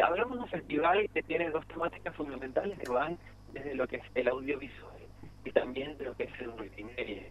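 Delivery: choppy phone line cutting out; breaking up on the phone. Real, not acted. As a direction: voice dropping out on a bad call. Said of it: "se está cortando un poco la comunicación".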